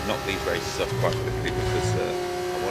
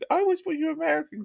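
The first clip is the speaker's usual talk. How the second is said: laughing; faster than usual. Real, not acted. Laughing apology to viewer.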